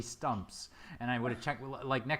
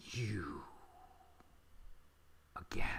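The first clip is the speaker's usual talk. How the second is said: weak dying voice, quieter; 3 semitones lower, 8 dB quieter than usual. Voicing a dying thief who reaches out to the players: Solid Snake voice. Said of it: "Why does he sound like Solid Snake?".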